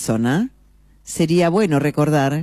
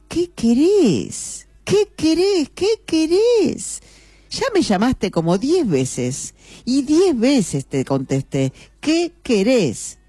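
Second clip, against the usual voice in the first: very high, slow, exasperated repeated questions; furious wife; 10 semitones higher, slower than usual. Acted. Annoyed wife turns on her husband, furious high complaint. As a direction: snap back at him, fed up and furious. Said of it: "La esposa, furiosa, se da vuelta".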